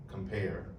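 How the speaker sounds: "compare" with the weight on "pare"; stress on second syllable. Shown as a demonstration. Poet shows audience the stressed syllable in a sonnet word, "compare" stressed on "pare". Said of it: "pair is the stressed syllable".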